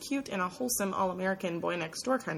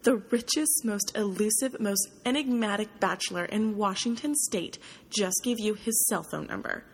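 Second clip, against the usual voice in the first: breathless, stunned outburst, louder at the start; gasping disbelief; 2 semitones higher, 3 dB louder than usual. Acted. Roommate reacting to the cell phone number, amazed and loud. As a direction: voice a friend's amazed gasp that fades into disbelief. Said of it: "Kate gasps".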